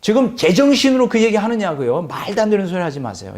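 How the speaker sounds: high-pitched scolding, mildly heated; indignant telling-off, quickening at the end; acted rebuke. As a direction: imitate scolding your teacher in disbelief. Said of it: "막 책망하는 거예요".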